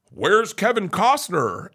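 high, drawn-out shouted question; retold teasing holler; calling out. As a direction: call after someone, stretching the words. Doctor jokingly calls after the singer.

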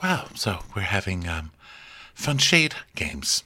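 hesitant, quiet mock politeness; Cynthia. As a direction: imitate someone awkwardly unimpressed, with long pauses. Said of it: "Cynthia is watching this episode like".

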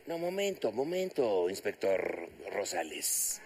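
a retold, low-pitched "wait a moment"; acted interruption. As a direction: halt the inspector, sinking low and slow. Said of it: "Y me dice".

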